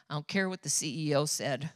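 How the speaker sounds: calm firm husband. Retold or imitated. Pastor husband calmly overruling the nurse, low and firm. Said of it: "very calm, strong way with a few words".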